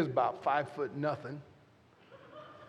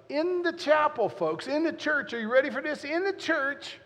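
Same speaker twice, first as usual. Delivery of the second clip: building suspense; 10 semitones higher, 4 dB louder than usual. Real, not acted. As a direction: stretch it out for the shock. Building suspense in church story.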